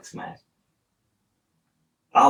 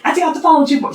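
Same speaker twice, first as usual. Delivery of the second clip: high teasing mom voice, much higher; mimicking his mom; 5 dB louder, much faster than usual. His mom on speaker, teasing him in a high voice. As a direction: play mom joking in a high voice. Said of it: "she's like".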